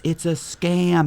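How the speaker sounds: mock screaming. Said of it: "Wachovia is going screaming".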